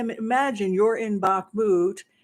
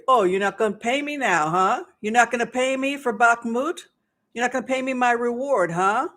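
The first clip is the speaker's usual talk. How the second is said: mock angry; 4 semitones higher than usual. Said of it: "So then he got angry".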